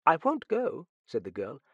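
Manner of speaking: put-on high-pitched, insistent young woman; defiant girl. A narrator's reading. Girl refusing the Frenchman's order to leave, defiant. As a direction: refuse to budge.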